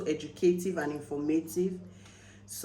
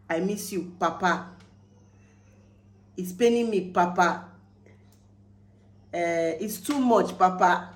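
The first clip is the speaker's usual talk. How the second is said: mock pleading; 5 dB louder than usual. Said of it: "Papa is like, plenty".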